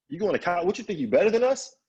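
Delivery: acted-out offended mother; indignant mom. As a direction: challenge them, incredulous, pitch climbing. Mom scolds him about college.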